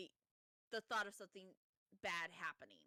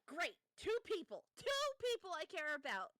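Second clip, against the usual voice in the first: exasperated worry; 5 semitones higher, 4 dB louder than usual. Retold or imitated. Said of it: "Haley's like".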